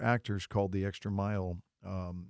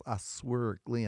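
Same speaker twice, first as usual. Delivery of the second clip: Southern friend's drawl; 2 semitones higher, much slower than usual. Retold or imitated. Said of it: "his S's take about a year and a half".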